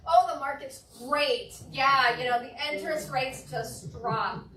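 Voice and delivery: loud, slow, gushing market pitch; mock overeager agent, loud; eager answer. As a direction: blurt out the good news too eagerly.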